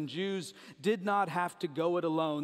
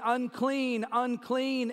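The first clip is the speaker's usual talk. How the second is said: mild, higher-pitched mock yell; imitated yell; 5 semitones higher, 3 dB louder, slower than usual. Lepers warning people off, imitated yell. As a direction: call it out as a light warning cry. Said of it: "They're supposed to be yelling".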